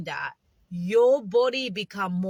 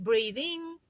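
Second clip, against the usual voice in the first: gentle breathing cue. Shown as a demonstration. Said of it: "I want you to try now".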